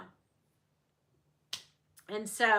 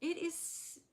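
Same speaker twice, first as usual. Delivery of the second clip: high, slow, whiny it's sad; mock whiny sad; 6 semitones higher than usual. Real, not acted. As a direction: pout through it's sad. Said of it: "it's sad".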